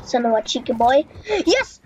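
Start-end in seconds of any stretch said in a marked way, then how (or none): 1.5-1.8 high, loud burst of victory; triumphant cheer. Real, not acted. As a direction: cheer like you just won. Teammate revived.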